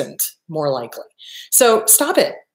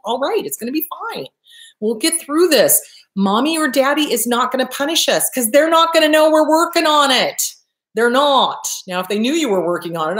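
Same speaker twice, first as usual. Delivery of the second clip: put-on comforting inner child; 3 semitones higher than usual. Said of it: "Comfort your inner child when it does".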